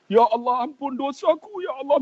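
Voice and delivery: retold high cry for mercy; retold tearful prayer. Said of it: "Menangis dia".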